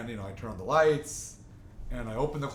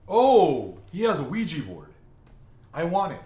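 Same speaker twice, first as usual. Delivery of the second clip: eager friend; 5 semitones higher, 9 dB louder than usual. Retold or imitated. Eager friend wants Ouija board.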